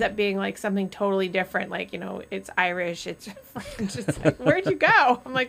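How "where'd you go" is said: put-on Indian accent. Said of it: "my husband will do, like, an Indian accent".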